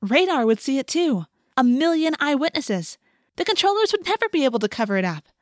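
high, eager listing; mounting excitement. A narrator's reading. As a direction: build the case keenly, pitched well up. Rachel excited by the plan.

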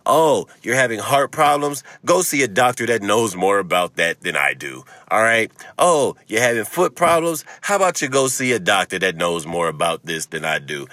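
high, breezy brush-off voice; mocking doctor. Comic mocking a doctor who refers patients elsewhere, offhand. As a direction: mimic a doctor passing you off, offhand. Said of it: "all y'all motherfuckers do is".

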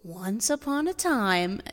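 fairy-tale opening. Acted. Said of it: "That is definitely not it".

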